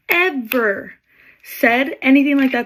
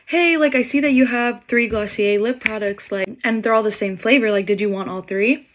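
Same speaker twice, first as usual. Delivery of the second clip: put-on gently nudging the girl to cut items; being nice. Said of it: "be nice and also get this line moving".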